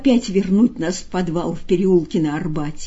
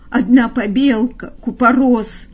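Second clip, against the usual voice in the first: babbling in terror; 4 semitones higher, 4 dB louder than usual. Acted. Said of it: "в ужасе понёс какую-то околесицу".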